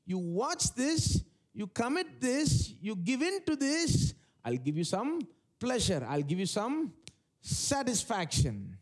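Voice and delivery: slow, measured enticement in separate phrases; sin as tempter. Acted. Sin bargaining with someone tempted, lightly voiced slow enticement. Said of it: "Does sin speak like that".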